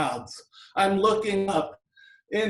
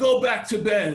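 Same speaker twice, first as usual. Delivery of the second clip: put-on stern, firm, no-nonsense voice; 2 semitones higher, 3 dB louder than usual. Recalling being four and finding the parents arguing, imitating a stern voice. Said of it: "in a stern voice".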